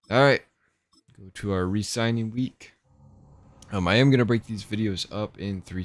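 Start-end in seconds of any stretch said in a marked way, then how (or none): 0.0-0.4 laughing. Real, not acted. Laughing at crazy draft stats.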